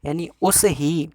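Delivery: spells out तस्य and एव slowly, apart; teacher splitting the compound for students, slow; slow breakdown. Shown as a demonstration. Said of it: "यहाँ पे दो शब्द मिले".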